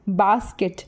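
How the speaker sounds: बास्केट with बास stressed. Shown as a demonstration. Teacher giving an example word, बास्केट stressed on बास. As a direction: put the weight on बास, lighter on केट. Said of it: "बीएएस पे ज़्यादा stress दे रहे हैं".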